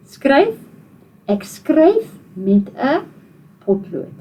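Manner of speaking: slow, clear model sentence for the class. Shown as a demonstration. Teacher slowly models the sentence for children to copy. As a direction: lay each word out slowly to repeat. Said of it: "So, say the sentence".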